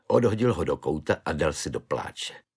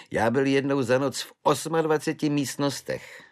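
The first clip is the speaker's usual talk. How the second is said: a lightly voiced good-natured Švejk; chatty, easy-going soldier's voice; 5 semitones higher than usual. Švejk cheerfully offers his belt to the prisoner, lightly voiced.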